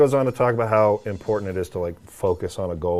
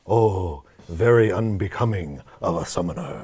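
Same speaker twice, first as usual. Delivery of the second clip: lightly voiced Maester Micah. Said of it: "in English, he's kinda just like".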